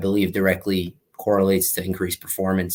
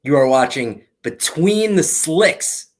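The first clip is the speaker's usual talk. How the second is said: booming show announcer, higher and slow; 4 semitones higher than usual. Pretend. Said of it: "I'm gonna try this in my best announcer voice".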